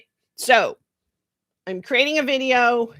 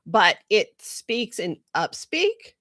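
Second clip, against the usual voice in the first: rising end on "upspeak"; slower than usual. Shown as a demonstration. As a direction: let "upspeak" lift like a question. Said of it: "if we go up at the end".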